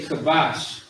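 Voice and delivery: "kabash" with a light, simple k; unforced K. Shown as a demonstration. Teacher contrasting Hebrew words, "kabash" unforced. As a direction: say "kabash" without force in the throat. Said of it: "not really saying it with too much force".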